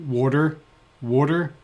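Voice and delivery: "water" drawn out slowly with an added R. Retold or imitated. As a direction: stretch "water" and put an R in it. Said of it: "with an R".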